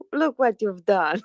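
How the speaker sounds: laughing as he speaks. Real, not acted. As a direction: say it through laughter. Laughing at Joseph.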